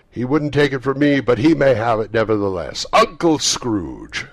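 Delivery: put-on high, loud, fast cheerful young man; cheerful nephew. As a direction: toast with hearty good cheer. Nephew's toast.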